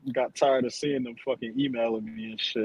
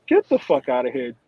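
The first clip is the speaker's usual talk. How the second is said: loud disbelief; 7 dB louder than usual. Real, not acted. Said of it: "disbelief at Neanderthal result".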